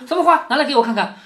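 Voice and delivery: 演宝玉抢着要看花，起音很高; 高起急问，随即伸手讨要的口气; 急切索要. Acted. 再演宝玉急着要花看. (急切地讨花看)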